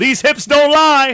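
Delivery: very loud, booming, high-pitched shout. Retelling how a player shouted to the sideline: imitating someone shouting. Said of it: "and shouts out".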